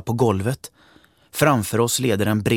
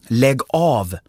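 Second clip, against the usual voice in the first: sullen; 5 semitones higher, 4 dB louder than usual. Acted. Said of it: "säger hon surt".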